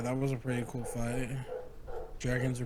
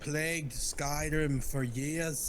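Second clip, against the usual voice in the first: slow amateur Scottish storytelling; attempted Scottish accent; slower than usual. Friend telling Kratos's dragon tale, attempted Scottish accent. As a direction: stretch the words in makeshift Scottish. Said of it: "I wish I could do a better Scottish accent".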